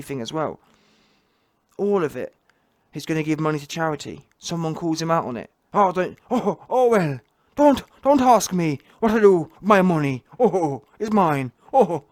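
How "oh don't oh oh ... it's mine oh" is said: mock Fury like a pantomime pirate. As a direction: vlogger mocking Fury in a loud pirate voice. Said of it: "Giving it all the pirate voice".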